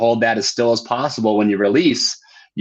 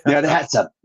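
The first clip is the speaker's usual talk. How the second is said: put-on Australian accent; 4 semitones higher than usual. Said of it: "the first thing I'm just like".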